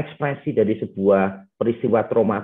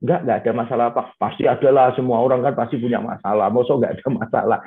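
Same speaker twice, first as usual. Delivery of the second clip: mock police interrogation. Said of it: "diinterogasi kayak polisi aja".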